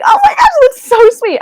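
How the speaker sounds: high, loud squeal of delight; reenacted squeal of happy excitement; delighted gushing. Acting out own delighted reaction.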